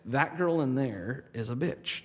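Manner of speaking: a slow, quiet, matter-of-fact put-down; calm insult. Retold or imitated. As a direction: say the insult softly and slowly, no heat. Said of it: "But I was very calm".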